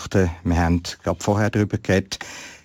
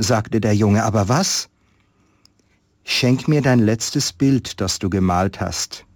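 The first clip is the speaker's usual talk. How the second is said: calm storyteller reading a Christmas tale; story narration; 3 semitones higher than usual. Acted. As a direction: read it like a story to listeners. Reads a Christmas story aloud. (Weihnachtsgeschichte vorlesen, ruhig erzählend)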